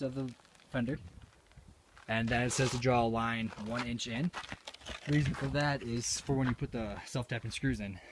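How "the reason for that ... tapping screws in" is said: out of breath from the altitude; winded, short of air mid-sentence; breathless at high altitude. Real, not acted. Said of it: "Whew, it's altitude".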